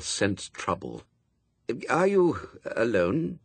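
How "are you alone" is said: slow, tentative question; higher, hesitant wariness; cautious. A narrator's reading. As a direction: ask carefully, feeling out trouble.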